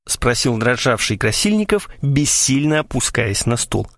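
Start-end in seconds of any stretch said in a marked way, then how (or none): none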